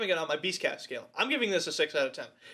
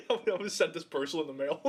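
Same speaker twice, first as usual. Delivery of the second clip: laughing; faster than usual. Retold or imitated.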